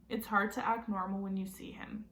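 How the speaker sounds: whispered under the breath, unvoiced. Jack confessing to himself in a whisper. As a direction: hush it like a guilty secret. Jack admits his secret feelings.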